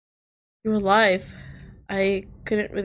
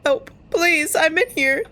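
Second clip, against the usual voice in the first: calling for help; 7 semitones higher, slower than usual. Acted. Trapped, pleading for rescue.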